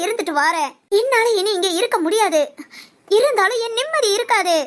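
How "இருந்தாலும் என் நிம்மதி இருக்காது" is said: crying. Acted. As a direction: voice breaking into tears while pleading. Pleading to be let go. (அழுகையுடன் கெஞ்சுதல்)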